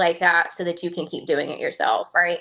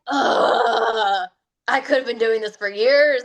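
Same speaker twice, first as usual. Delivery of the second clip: annoyed groan; 3 semitones higher, slower than usual. Retold or imitated. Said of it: "I just got really angry".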